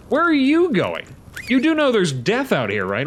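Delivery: playful high-pitched nag to the wandering dino; high mock scolding. Real, not acted. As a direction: call after a wandering pet in a squeaky scold. Repeated to wandering pets, much higher.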